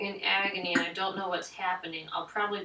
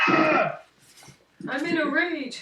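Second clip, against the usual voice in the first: high, loud, drawn-out shout; raging battle cry; 8 semitones higher, 8 dB louder, much slower than usual. Acted. Player declares the character's rage, shouting it out. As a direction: bellow the words slowly as a battle cry.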